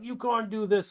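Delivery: high-pitched teammate protest; pleading protest. Acted. Teammates having a word with him, protesting.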